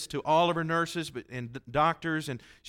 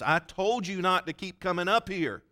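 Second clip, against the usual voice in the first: mock scolding; 5 semitones higher than usual. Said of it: "she got mad with me".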